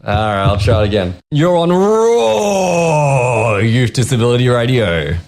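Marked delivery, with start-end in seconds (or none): 1.3-5.1 slow, drawn-out radio ident; radio station ident. Shown as a demonstration. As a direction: stretch it out like a station call. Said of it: "Now that's a Raw".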